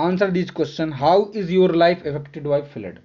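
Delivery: very slow, clear read of the instruction; slow reading aloud. Shown as a demonstration. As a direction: dictate the instruction to the class. Reads question slowly. (बहुत धीमे पढ़ते हुए)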